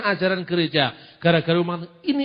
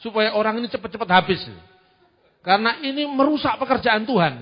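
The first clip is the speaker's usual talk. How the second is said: mock prayer; 3 semitones higher than usual. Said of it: "Saya ngomong".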